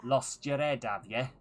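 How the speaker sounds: loud, scolding nobleman; angry noble voice. Acted. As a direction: berate the king like an outraged lord.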